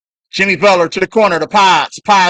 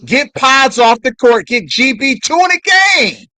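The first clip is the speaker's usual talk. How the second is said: higher, louder shouted demand at the coach; louder insistent repeat; 6 semitones higher than usual. Real, not acted. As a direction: yell it like the coach can hear. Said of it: "repeats the demand louder".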